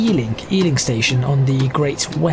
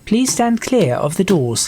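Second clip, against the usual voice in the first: slow, measured door announcement; train announcer; 3 semitones higher, slower than usual. Acted. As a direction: space it out like an automated announcement.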